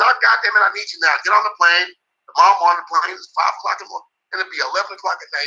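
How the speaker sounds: hammed-up demand to get on the plane; mock insistent trainer.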